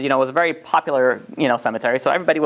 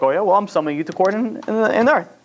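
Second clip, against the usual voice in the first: mildly cocky comeback, pitched up at the end; smart-aleck retort; 4 semitones higher than usual. Retold or imitated. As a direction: retort like a wise guy in a retelling. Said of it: "he's a smart guy".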